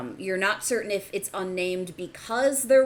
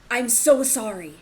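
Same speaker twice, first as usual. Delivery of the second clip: masculine voice pleading; 4 semitones higher, 4 dB louder than usual. Acted. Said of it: "the masculine voice is saying something".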